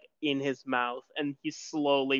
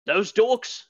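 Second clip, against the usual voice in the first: scornful NPC; 7 semitones higher, 4 dB louder than usual. Acted.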